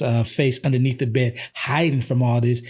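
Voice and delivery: ordinary delivery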